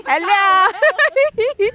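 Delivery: high, sweet hello to a cow; talking to a cow. Pretend. Speaker greets a cow in a high sweet voice. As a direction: coo a hello at the animal.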